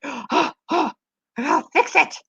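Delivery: high, fretful little voice; frantic mother hamster. Pretend. Mother hamster hurrying to re-cover her babies, high frantic fretting. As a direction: fuss like a tiny panicked mom. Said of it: "She's like".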